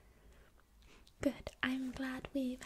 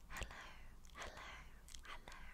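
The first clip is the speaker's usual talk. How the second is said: much softer whispered hello; faint ASMR whisper greeting; 14 dB quieter, faster than usual. Shown as a demonstration.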